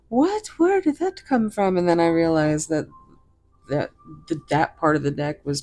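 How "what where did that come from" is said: high, loud startled exclamation; surprised what. Retold or imitated. Retelling her aha moment to viewers, high startled surprise. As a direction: recreate the moment of sudden surprise.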